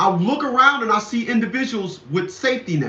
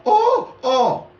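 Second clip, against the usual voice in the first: mock swoon; 6 semitones higher than usual. Mocking people's feelings.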